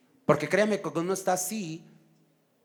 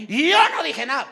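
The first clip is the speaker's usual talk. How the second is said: higher, louder mock protest; protesting denial; 6 semitones higher, 6 dB louder than usual. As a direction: act out an indignant denial, voice jumping up. Acted denial in a quarrel. (negación indignada, actuada)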